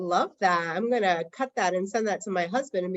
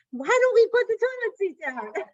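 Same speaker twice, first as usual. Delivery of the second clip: higher, louder, fed-up question; exasperated plea; 12 semitones higher, 3 dB louder than usual. Retold or imitated. Wife scolding her husband about the toilet seat, fed up. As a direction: throw it up in the air, fed up.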